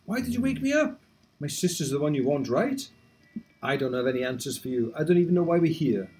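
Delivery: a hint of a sulky young character; voicing a sleepy boy. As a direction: read his lines as the grumpy brother. Voicing Noel's dialogue.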